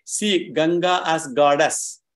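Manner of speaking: slow, with "goddess" weighted; deliberate example, "goddess" stressed. Shown as a demonstration. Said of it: "the emphasis is on goddess only".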